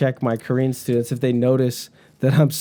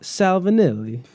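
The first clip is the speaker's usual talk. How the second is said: slow, high mock-Italian "Salvinelli"; off-emphasis Italian accent; 6 semitones higher than usual. Shown as a demonstration. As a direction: put the emphasis wrong on "Salvinelli", drawn out and high. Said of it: "the emphasis is all off".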